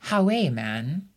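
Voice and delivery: Hawe, man said in a broad Sunderland accent; Sunderland dialect phrase. Shown as a demonstration. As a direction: teach the word Hawe with a Mackem lilt. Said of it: "here we go".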